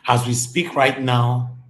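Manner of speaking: slow loud declaration. Real, not acted. Vlogger opening his rant on the politicians, loud and slow. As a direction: announce it like breaking news.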